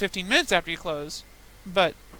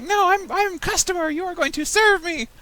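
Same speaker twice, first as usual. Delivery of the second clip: Russian accent imitation; 13 semitones higher, 6 dB louder than usual. Mimicking the rude Russian customer, thick Russian accent. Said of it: "He's like".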